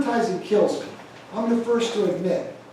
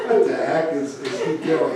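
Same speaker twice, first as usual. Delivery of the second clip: laughing; 3 semitones lower, 3 dB louder than usual. Retold or imitated. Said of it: "I said".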